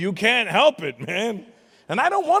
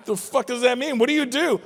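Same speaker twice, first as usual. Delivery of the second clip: higher mock question; incredulous parent; 9 semitones higher, 4 dB louder than usual. Parent asking the influencer, higher and baffled. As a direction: ask it baffled.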